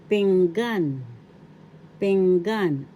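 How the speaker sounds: pinggan loud and clear, accent on GAN; stress on second syllable. Shown as a demonstration. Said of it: "The accent is in the second syllable".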